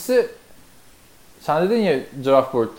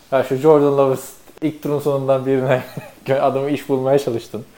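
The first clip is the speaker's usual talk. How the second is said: mock quote laughing; 4 dB louder than usual. Mocking cohost's draft wish.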